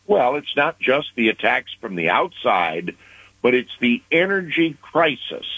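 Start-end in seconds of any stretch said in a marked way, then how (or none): 3.4-5.5 crisis lifted clearly higher, leaned on; stress on crisis. Real, not acted. Analyst to anchor Rick, stressing crisis. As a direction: lean on the word crisis to drive it home. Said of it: "let me emphasize that word crisis".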